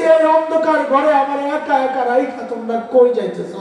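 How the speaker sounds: abandoned dead man calling after his family; pleading cry. Acted. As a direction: cry out to the departing mourners, pitched high. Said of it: "আমি চিৎকার করতেছি".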